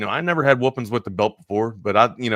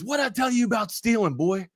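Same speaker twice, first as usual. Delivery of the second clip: scolding grandma; 11 semitones higher than usual. Retold or imitated.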